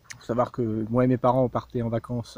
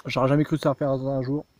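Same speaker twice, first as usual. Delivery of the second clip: talking with mouth full; chewing loudly while talking; messy loud eating. Real, not acted. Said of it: "je parle la bouche pleine".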